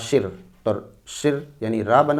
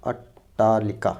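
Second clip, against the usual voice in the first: slow dictation; much slower than usual. Shown as a demonstration. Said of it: "तो अट्टालिका होता है".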